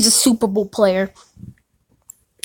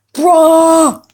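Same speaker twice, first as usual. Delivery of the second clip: excited outburst; 4 semitones higher, 5 dB louder than usual. Real, not acted. Reacting to a card pull.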